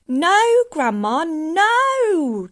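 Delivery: put-on loud, high boy pleading; drawn-out, protesting cry; calling back. A narrator's reading. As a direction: shout back in alarm. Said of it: "George called back".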